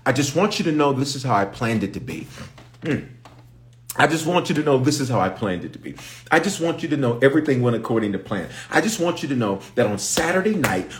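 high-pitched, insistent preaching cadence; emphatic divine declaration. Acted. Preacher speaks as God to worried believers, insistent and high. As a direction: build it phrase on phrase, pitched high. Preacher voices God's triumphant message.

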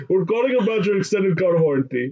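high-pitched fake robocaller pitch; put-on high sales-call voice; mock telemarketer. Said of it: "telemarketers calling you".

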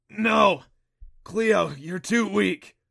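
high, loud pleading cry; desperate shout. Acted. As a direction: cry out to stop her. Protesting dying friend's effort.

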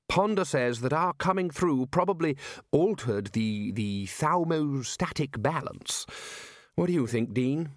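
lightly voiced senior wizard, slow; Ridcully, explaining. Ridcully asks the dean about magical balance, explaining. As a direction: explain slowly, feeling for the term.

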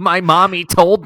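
put-on high, slow, smug little kid; whiny know-it-all child, drawn out; Polar Express kid voice. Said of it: "And he talks like this".

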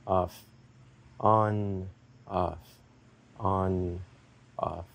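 steady count winding down; rhythm slowing down. Shown as a demonstration. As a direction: let the gaps grow and the voice soften toward the end. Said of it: "get it back down".

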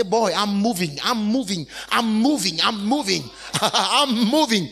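loud joyful chant of I'm moving, laughing; exultant believer shouting his joy. Acted. Preacher acting joyful believer.

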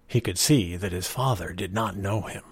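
ordinary delivery

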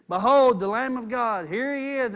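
booming "Behold" then settling; loud proclamation. Retold or imitated. John proclaims to the crowd, loud and ringing. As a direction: announce him to the whole crowd.

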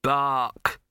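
loud, abrupt bark on the word; word turned bark. A narrator's reading. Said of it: "managed to turn it into a".

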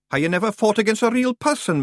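a cheeky little Feegle drawling. A narrator's reading.

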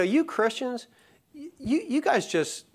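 a hint of a sneering skeptic; mocking skeptic. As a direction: poke fun at the accusing outsider. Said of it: "And people will say".

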